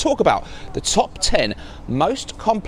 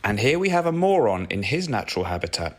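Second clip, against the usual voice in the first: nature documentary; 6 semitones lower, 4 dB quieter than usual. Pretend. Echoes wildlife narrator line mockingly.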